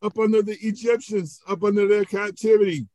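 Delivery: high-pitched acted wail of protest; panicked complaint. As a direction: play a frightened Israelite blaming the leader. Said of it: "What would you be thinking".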